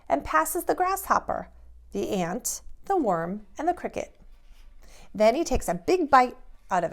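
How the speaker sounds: lively, bouncy picture-book narration; animated storytime read-aloud; reading to children. A narrator's reading. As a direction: read it like a bedtime story to little kids.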